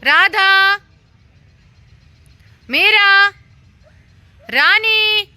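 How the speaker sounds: high, loud call across the yard; long high calling shout. Real, not acted. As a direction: call the dogs' names from a distance. Calling the dogs from afar.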